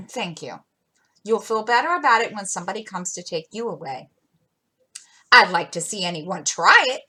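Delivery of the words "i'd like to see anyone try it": louder, defiant challenge; fierce cry. Acted. Jo daring any suitor to take her, fierce and loud. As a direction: dare anyone to try. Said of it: "cried Jo fiercely".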